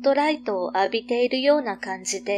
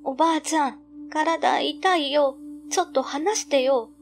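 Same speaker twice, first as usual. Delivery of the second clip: put-on child complaining; 5 semitones higher than usual. Boy squirming in grandma's grip.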